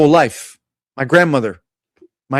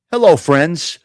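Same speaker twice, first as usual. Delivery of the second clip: a light parody of a video host's greeting; mild mock greeting with a rising end; mocking Giacomo; 3 semitones lower, slower than usual. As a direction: toss off a hint of his cheesy hello. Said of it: "that guy Giacomo".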